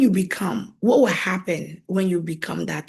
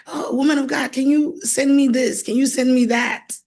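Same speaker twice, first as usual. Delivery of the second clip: higher-pitched mimicry of someone asking a favour; imitated pleading request; 5 semitones higher than usual. Someone asking the woman of God for money, imitated pleading. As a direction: lightly mimic an eager asker.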